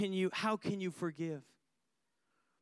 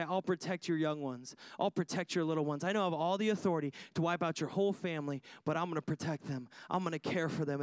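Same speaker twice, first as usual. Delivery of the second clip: spoke kindly; 5 semitones lower, faster than usual. Retold or imitated. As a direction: gently promise to protect them. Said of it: "And it says he spoke kindly".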